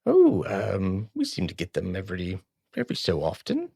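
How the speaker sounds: lightly voiced halfling innkeeper; hesitant comic innkeeper with fillers; Sylveth. Innkeeper vaguely answering about visitors, lightly put-on voice. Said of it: "what does Sylveth sound like".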